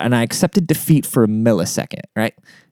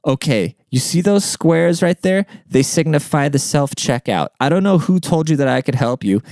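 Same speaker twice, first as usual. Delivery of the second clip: higher-pitched, condescending clerk imitation; 5 semitones higher than usual. Clerk brushes off a customer asking for balloons, condescending. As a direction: talk down to them as if explaining the obvious. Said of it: "she goes really condescending".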